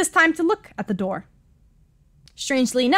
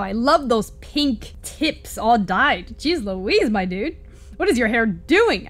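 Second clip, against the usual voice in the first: ordinary talk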